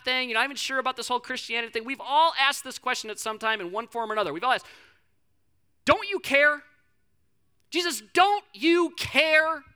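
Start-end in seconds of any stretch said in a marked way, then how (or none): 5.8-9.6 loud, high cry of accusation; acted desperate plea. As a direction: cry out as panicked disciples demanding an answer. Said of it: "they are freaking out".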